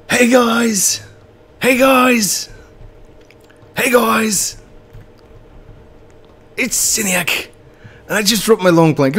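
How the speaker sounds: very high, loud put-on voice; Siniac. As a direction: squeal an excited greeting in a hammed-up impression. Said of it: "my best Siniac voice".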